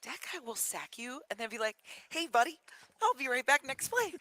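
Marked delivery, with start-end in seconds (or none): 2.1-4.1 higher, cheery mock-friendly; smiling taunt. Player who just sacked you, smiling taunt. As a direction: say it through a smile, pitched up. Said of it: "he, like, smiles at you".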